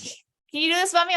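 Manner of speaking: put-on high-pitched little kid's question; imitating own child. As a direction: play a child challenging a parent. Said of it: "my children have mastered it".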